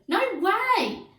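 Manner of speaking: very high, loud scream. A narrator's reading. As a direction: scream in protest. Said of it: "screamed Aerobic Al".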